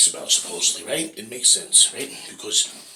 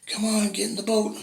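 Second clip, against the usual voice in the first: very high, pressing call; urgent boat rescuer; 13 semitones higher than usual. Acted. Boat rescuer urging the homeowner aboard, very high and pressing. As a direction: urge him into the boat.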